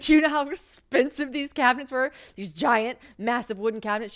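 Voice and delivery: worked-up high-pitched complaint; indignant disbelief. Retold or imitated. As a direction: demand she grasp the price, outraged. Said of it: "I was like".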